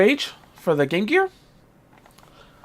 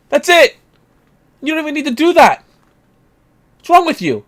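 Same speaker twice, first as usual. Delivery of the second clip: exasperated rant; 4 semitones higher than usual. Real, not acted. Ranting at overpriced console backers.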